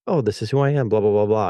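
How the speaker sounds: a mocking take on someone playing a role; fake persona. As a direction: play a phony smooth talker. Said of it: "play that whole role of".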